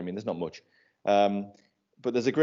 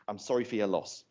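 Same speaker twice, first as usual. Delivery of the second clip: hushed, softer condolence; mock solemn condolence; 7 dB quieter than usual. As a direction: murmur it like a sombre minister. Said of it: "one of them walks past and goes".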